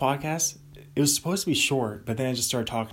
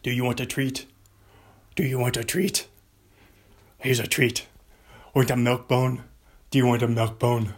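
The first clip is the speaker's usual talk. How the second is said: talking to a dog; 4 dB louder than usual. Acted. Offering dog a treat.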